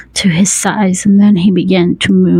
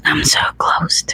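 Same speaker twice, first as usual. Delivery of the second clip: soft, whispered rasp; hushed rasp with little voice; 5 dB quieter than usual. A narrator's reading. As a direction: rasp it out under the breath. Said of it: "He rasped".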